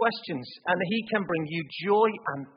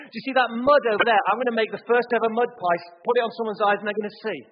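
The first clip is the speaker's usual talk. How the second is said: louder, higher mock sales pitch; boastful showman; 3 semitones higher, 3 dB louder than usual. Preacher imagining a boastful Jesus recruiting followers, hammed-up pitch. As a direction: hype it up like a showman promising wonders.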